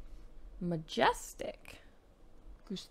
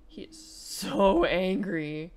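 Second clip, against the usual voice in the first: stretched cooing; 2 semitones lower, 5 dB louder, much slower than usual. Acted. Cooing over a cranky baby.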